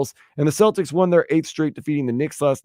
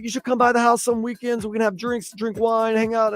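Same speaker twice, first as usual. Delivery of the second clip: lightly pitched-up mock British accent; bad British accent; 7 semitones higher than usual. Host still mimicking the British guy inviting him over, bad British accent. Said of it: "He's like".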